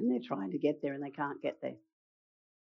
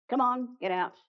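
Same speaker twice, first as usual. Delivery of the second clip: higher, brisk "Come on, get out"; impatient brush-off; 6 semitones higher than usual. Shown as a demonstration. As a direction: hurry him out of the boat.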